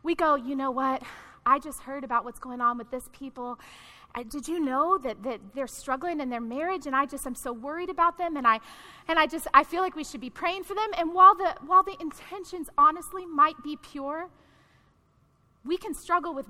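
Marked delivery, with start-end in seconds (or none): 0.3-10.9 soft, lower, hesitant mock concern; confiding gossip. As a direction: imitate a gossip confiding under cover of worry. Acts out church gossip as concern.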